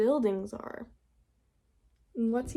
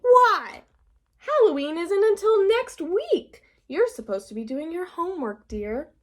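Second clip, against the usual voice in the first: much higher, louder startled mom voice; surprised mother; 7 semitones higher, 5 dB louder than usual. Acted. Mother catching Froggy in the sheet, high and loud. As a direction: call out sharply like a startled mother.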